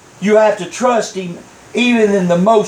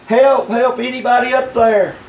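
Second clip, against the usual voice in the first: higher-pitched acted holler; hollering for help; 4 semitones higher than usual. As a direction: call up for help, lightly hammed up. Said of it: "kept hollering".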